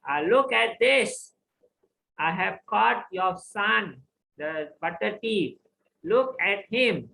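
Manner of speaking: indignant complaint. Acted. Gopi complains to Yashoda.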